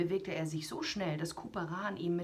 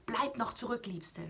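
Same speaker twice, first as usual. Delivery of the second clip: called out; 6 semitones higher than usual. Acted. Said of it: "doch der rief".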